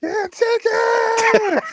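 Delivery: play-acted, very high, shrill, super loud screaming yell. Retelling a comedy skit, the subconscious bursting out: imitating someone screaming super loud. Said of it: "started screaming, like, super loud".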